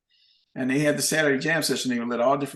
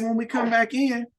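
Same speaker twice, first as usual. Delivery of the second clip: much higher, slow, drawn-out taunt; slow taunting jab; 9 semitones higher than usual. Retold or imitated. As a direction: savor the last insult. Bandleader's final jab.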